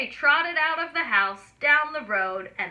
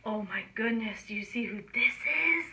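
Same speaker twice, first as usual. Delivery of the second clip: much softer, secretive aside; suspenseful hush; 5 dB quieter than usual. A narrator's reading. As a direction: hush the kids for a surprise. Teasing wolf reveal.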